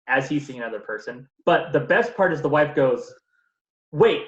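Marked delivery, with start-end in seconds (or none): 3.9-4.2 high, loud offended disbelief; mock indignation. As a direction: play her shocked at being overlooked. Retold wife's indignation.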